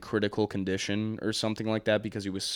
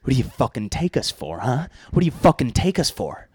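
angry shouting; 4 semitones higher, 10 dB louder than usual. Acted. Acted angry parent scolding.

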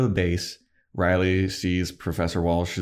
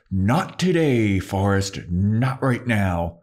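slow, deliberate, raised warning; firm refusal; 3 semitones higher, much slower than usual. Retold or imitated. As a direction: shut him down slowly, each word weighted. Riley stops Forrest's accusation.

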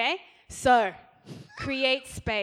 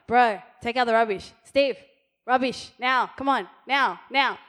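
bossy nagging wife, lightly louder; mild mock nagging; 6 dB louder than usual. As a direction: nag him to take out the rubbish, half in jest. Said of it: "if you're like".

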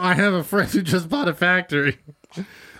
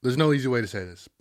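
breaking bad news; 4 semitones lower, 4 dB quieter than usual. Improv scene, boss breaks news.

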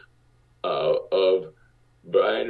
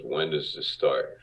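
Marty Bregman's deep voice; 3 semitones lower, 3 dB quieter than usual. Retold or imitated. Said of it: "he had a deep voice like this".

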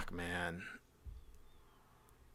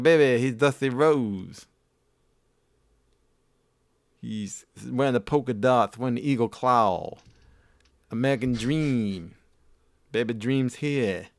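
weird wrestler voice. Retold or imitated. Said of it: "talking to me in this weird voice".

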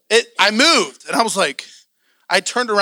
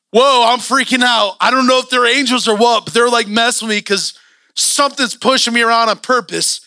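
retold freak-out. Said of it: "I'm opening my eyes and I'm like".

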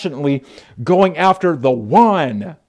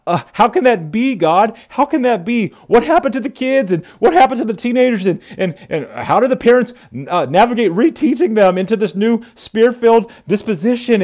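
eager questions to God; 4 semitones higher than usual. Retold or imitated. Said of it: "we're often like".

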